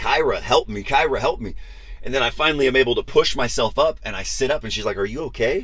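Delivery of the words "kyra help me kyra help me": mock yelling, slow and drawn out. Retelling being pulled off the bed, retelling yelling for help. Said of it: "I'm yelling".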